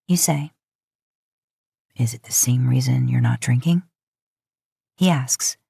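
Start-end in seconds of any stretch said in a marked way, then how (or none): 2.0-3.8 a touch lower, calm brother-in-law voice; lightly voiced Sam.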